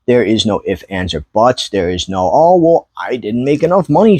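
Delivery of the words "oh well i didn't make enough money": mocking whine. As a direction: parrot the excuse in a whiny voice. Mocking a complaining seller.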